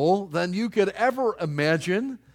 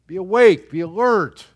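loud, commanding call to wake; preacher calling the flock to alertness; loud exhortation; 2 semitones higher, 8 dB louder than usual. Acted. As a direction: bark it out like a rallying cry. Preacher urging the congregation.

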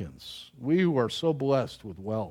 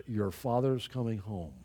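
softer, low, a little spooked; hushed ominous warning; 6 semitones lower, 7 dB quieter than usual. Retold or imitated. Preacher recalling mother's warning, hushed and ominous. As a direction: let the words land quietly like a threat. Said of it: "but then the words".

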